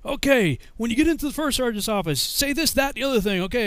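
high-pitched imitation of a sergeant giving instructions; drill sergeant. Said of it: "so the drill sergeant".

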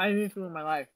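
talking while eating; mouth full. Real, not acted. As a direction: say it around a mouthful of food. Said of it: "Sorry, guys, I'm eating".

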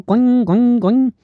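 high, twangy mock Texan sound; Texan accent. Imitating the typical Texan accent, mock Texan twang. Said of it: "acento tejano".

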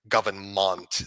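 government said with a "munt" ending in mockery; mocking imitation. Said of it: "I hear Kamala talking like that".

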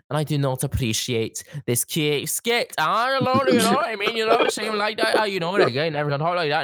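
a lightly voiced indignant politician; Nicola Sturgeon. A friend mocks a politician, lightly offended tone. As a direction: sound mildly offended and prim. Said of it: "stop being like Nicola Sturgeon".

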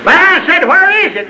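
high, insistent question; animated retelling of a demand; retold challenge. Challenges God in retold exchange.

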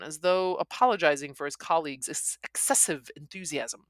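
plain reading voice

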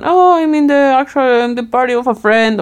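mild mock excuse, a little apologetic; German excuse. German declining a spontaneous invite, lightly mocked polite excuse. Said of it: "tell that to a German".

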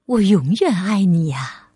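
low, tender motherly voice; smiling mother. Acted. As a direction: reassure a child with a smile. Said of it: "妈妈笑着说".

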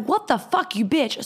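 imitating an outraged friend; retold outraged yell. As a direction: fire it back at the thief in disbelief. Sally yelling at the thief.

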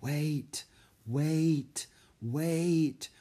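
high, hushed creature voice; spider whisper. A narrator's reading. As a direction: coax them like a giant spider. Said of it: "whispered the Spider Queen".

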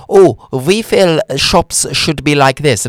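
slow put-on voice for the shop; mock IKEA voice. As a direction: draw out IKEA's words in a mock voice. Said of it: "the shop that went".

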